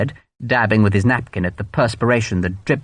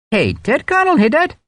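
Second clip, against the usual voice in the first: flattering Irish. A narrator's reading. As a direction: lay on the flattery thick. Hogan in Irish voice.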